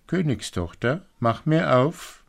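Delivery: calling out. A narrator's reading. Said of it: "und rief". (hoher, gedehnter Ruf des Froschs)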